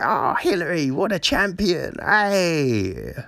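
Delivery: lightly hammed-up admiration; mock adoring crowd. Imitating everyone praising a politician, lightly mock adoring. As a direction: cheer them on with mock adoration. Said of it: "now everyone's like".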